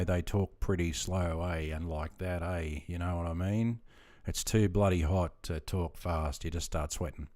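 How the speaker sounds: slow, unhurried outback Aussie; slow outback accent. Shown as a demonstration. Streamer showing viewers how outback people talk, slow outback accent. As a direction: take your time like an outback local, eh. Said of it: "much slower than us".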